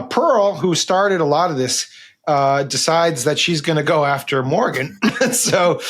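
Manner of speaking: catching breath while talking; breathless, gasping between phrases. Real, not acted. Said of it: "sorry, I'm catching my, uh, breath here".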